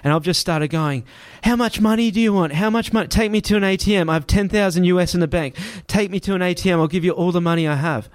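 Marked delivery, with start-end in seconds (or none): 1.4-8.1 high, rushed bargaining; desperate pleading. Retold or imitated. Man pleading with the driver for money deal, desperate. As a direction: beg for your life.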